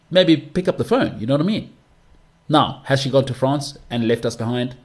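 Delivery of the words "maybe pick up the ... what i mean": mock scolding. Real, not acted. Scolding sister who won't answer.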